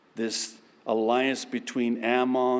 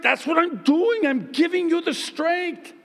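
much higher, louder patient God voice; God's voice; 4 dB louder than usual. Acted. God explaining he gives the strength, high and loud. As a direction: gently correct as God. God answers believer in skit.

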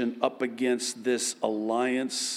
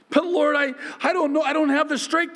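higher, louder faltering whine; whining believer; 13 semitones higher, 4 dB louder, faster than usual. Acted. Believer telling God he lacks strength, high whine. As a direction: stammer out helplessness to God.

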